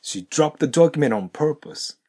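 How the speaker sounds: "She dropped the document on purpose" all linked, rising; linked model read. Shown as a demonstration. Teacher reads whole sentence linked. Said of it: "ここ読んでみますと".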